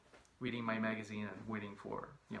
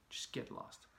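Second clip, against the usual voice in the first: hissed dismissal; 9 dB quieter, slower than usual. Retold or imitated. Pushing the stranger away.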